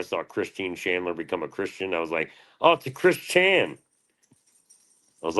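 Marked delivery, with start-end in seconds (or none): 2.6-3.8 very high mocking squeal. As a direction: make fun in a silly high voice. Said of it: "I was making fun of".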